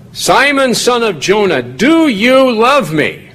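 very high, drawn-out "do you love me"; emphatic peak. Acted. Jesus asking Peter a third time, emphatic peak of the build. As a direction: hit "do" hard and slow, pitch at its peak. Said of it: "to build up to the, you know, the peak".

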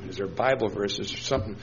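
panicked thoughts kept under the breath; anxious inner thought. Retold or imitated. Young man panicking inside while being screamed at, soft and worried. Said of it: "and I'm thinking".

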